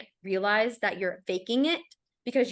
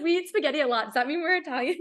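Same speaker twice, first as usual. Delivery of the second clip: put-on higher, innocent little-kid asking; childlike naive question; 7 semitones higher than usual. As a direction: play her younger self asking, wide-eyed. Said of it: "I said".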